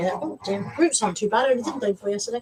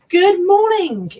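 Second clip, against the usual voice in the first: drawn-out greeting; 9 semitones higher, 7 dB louder, much slower than usual. Pretend. Drawn-out loud greeting repeat.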